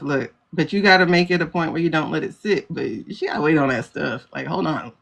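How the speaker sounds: breathless from talking fast; winded, gasping between phrases; out of breath. Real, not acted. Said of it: "Let me catch my breath".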